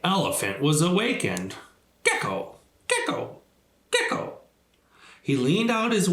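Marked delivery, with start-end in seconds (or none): 2.0-4.4 hushed midnight calling; whispered call. Acted. Gecko wakes Elephant at midnight, whispering his name. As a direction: whisper the name three times.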